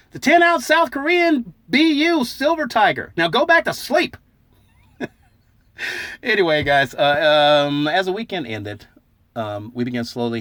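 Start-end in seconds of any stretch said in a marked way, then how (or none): 0.1-4.2 high, slow sing-song chant in unison; chorus of sleepers. Retold or imitated. Whole group sits up and chants together, high and slow. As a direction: chant it like everyone waking at once. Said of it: "sits up in unison and says".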